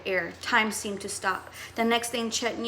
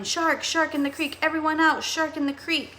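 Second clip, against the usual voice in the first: higher shouted alarm; shouting warning; 6 semitones higher than usual. Acted. Captain warning swimmers from his boat, shouting. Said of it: "Captain Wilson's voice shouting".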